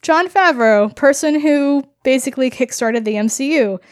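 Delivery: bright, sudden realization; pleasantly surprised. Retold or imitated. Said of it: "I thought".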